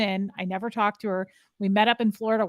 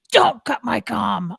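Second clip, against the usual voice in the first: slow, louder stern rebuke; growly scolding; 6 dB louder, slower than usual. Retold or imitated. Scientology superior scolding a junior, slow, loud rebuke. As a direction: bite it out like an offended superior. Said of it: "people just get real growly and real crazy".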